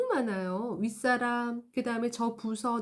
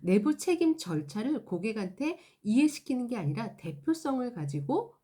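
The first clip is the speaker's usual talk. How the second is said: normal talking voice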